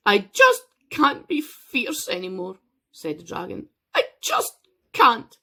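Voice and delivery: weary dragon unburdening to Noah; upset dragon. Acted. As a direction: plead like a worn-out beast.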